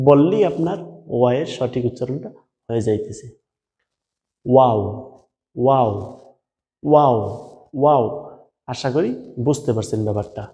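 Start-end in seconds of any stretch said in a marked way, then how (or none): 4.5-8.0 ওয়াও said with rounded lips slightly open; pronunciation demo. Shown as a demonstration. Teacher modelling ওয়াও for learners, rounded and falling. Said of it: "দুই ঠোঁট গোল করিয়ে সামান্য ফাঁকা রেখে".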